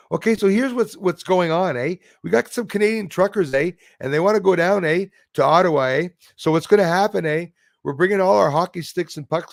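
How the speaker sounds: mock a Canadian trucker, eh-ing through every phrase; exaggerated Canadian accent. To viewers, parodying Canadian truckers, in a hammed-up Canadian accent. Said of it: "It was so Canadian".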